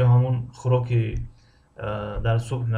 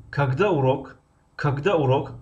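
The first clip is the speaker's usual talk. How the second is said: "когда урок?" with когда stretched and raised; drawn-out когда; 2 semitones higher than usual. Shown as a demonstration. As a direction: lean on когда, drop урок. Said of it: "Кагадаро мекашем".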